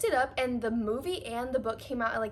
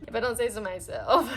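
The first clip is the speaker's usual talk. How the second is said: laughing; 3 dB louder, faster than usual. Real, not acted. Laughs at own remark.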